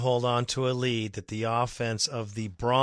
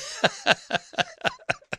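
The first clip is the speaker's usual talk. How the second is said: squeaky high laugh; high giggle. Real, not acted. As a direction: burst into a tiny falsetto giggle. Giggles at his own grammar joke.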